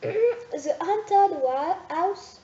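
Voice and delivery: slow, effortful English title in a French accent; bad English accent. Real, not acted. French vlogger retries the English title in her poor accent. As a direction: force the English words out slowly. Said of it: "mon accent d'anglais pourri".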